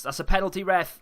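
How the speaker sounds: loud, high appeal to the ref; shouting for a penalty. Real, not acted. Gamer yelling at the ref for a penalty. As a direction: protest the foul out loud.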